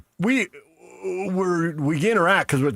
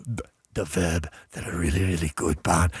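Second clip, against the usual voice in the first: put-on softer, lower Iranian accent; 8 semitones lower, 4 dB quieter than usual. Retelling the classmate's radio sign-off in his Iranian accent. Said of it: "he had a heavy accent".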